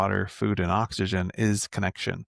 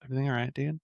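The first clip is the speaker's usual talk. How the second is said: soft, higher, gentle check-in; imitating calm dad; 4 semitones higher, 6 dB quieter, much faster than usual. Dad asking his acting-up kid if he's okay, calm. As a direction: play a dad checking in softly. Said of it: "calm voice. I remember my dad used to always do this".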